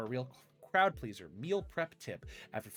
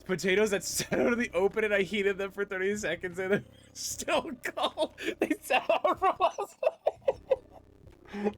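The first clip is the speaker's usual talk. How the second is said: much higher, louder mock complaint with laughs; imitating Nana; 7 semitones higher, 6 dB louder than usual. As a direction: play Nana grumbling about cold potatoes. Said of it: "Look at what Nana said".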